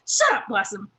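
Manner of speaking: giggling camp shout; laughing yell. Retold or imitated. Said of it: "speak to each other from our various tents".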